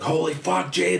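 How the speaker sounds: imitating a friend's high shocked cry; shocked friends. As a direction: gasp it out like a horrified friend. Friends shocked seeing his face.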